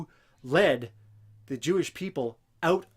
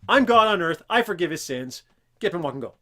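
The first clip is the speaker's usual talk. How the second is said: hammed-up grand boast of divine power; boastful god claim; 2 semitones higher, 9 dB louder, faster than usual. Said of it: "more humble than going".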